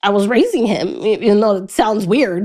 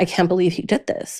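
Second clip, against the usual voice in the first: put-on crying, tearful voice, quieter; 2 semitones lower, 6 dB quieter than usual. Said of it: "and she's crying".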